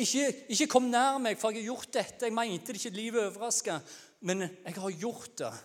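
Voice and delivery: high warning cry, losing volume; shouted confession, easing off. Acted. Sinner warning others not to come near, shouted confession easing off. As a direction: start loud, ease down but stay high. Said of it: "gå rundt og så rope sånne ting".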